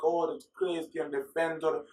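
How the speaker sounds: mock Hispanic accent, hammed up; a clumsy fake Hispanic accent; bad Hispanic accent. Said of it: "That was a bad Hispanic accent".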